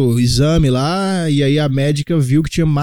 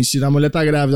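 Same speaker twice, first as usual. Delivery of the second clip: usual speaking voice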